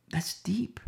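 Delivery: hushed whispered aside; breathy hushed aside to the congregation. Real, not acted. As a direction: drop to a whisper.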